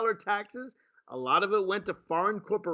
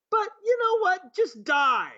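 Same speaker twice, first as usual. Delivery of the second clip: mock president; 10 semitones higher, 4 dB louder, slower than usual. Mocking the president's message.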